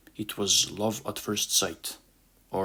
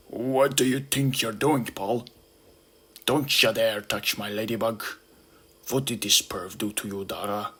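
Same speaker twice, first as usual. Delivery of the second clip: angry beetle. Acted. Hercules beetle voiced angrily.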